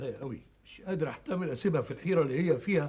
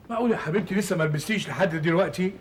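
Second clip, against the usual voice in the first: laughing; 4 semitones higher, 5 dB louder than usual. Acted. Grandfather teasing granddaughter, laughing.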